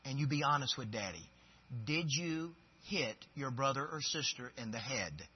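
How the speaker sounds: put-on soft, patient plea to a child; a dad quietly asking his child to be honest; gentle fatherly coaxing. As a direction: coax your child softly. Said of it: "I say".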